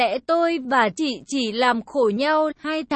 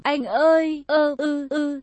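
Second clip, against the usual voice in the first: moaning. A narrator's reading. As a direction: moan his name and let it fade. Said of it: "chị lại rên rỉ đầy khoái cảm".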